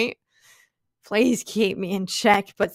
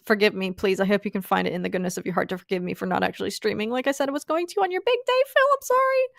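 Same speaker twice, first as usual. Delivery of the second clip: mock pleading apology; faster than usual. Real, not acted. Begging forgiveness from Phil.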